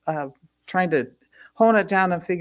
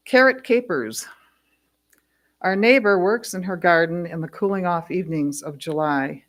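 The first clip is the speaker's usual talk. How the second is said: measured recital, falling away at stanza ends; poetry reading. Acted. Poet reads a true carrot story to an audience, measured recital. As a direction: read it as verse, setting each image apart. Reads poem after announcing it.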